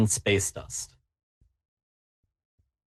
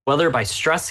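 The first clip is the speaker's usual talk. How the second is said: usual speaking voice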